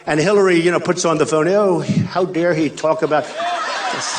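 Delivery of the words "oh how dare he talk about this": mock indignant. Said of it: "she acted indignant".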